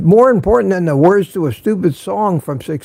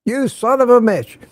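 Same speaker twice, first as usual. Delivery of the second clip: higher, teasing mock scold to his son; a hint of a dad teasing his son; 8 semitones higher than usual. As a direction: playfully chide your son, pitched up. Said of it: "call my son that sometimes".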